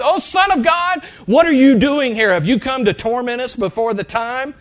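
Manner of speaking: high, loud demon cry; demon yelling out. Retold or imitated. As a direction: yell it like a startled demon. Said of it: "the demon would yell out".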